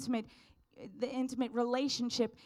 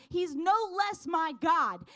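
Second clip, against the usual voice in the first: fervent declaration; 6 semitones higher, 4 dB louder than usual. Real, not acted. Peak of passionate testimony.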